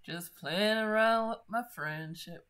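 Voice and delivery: hammed-up betrayed protest; mock aggrieved. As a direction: swell loudly through the middle in mock hurt. Repeats mock complaint, exaggerated.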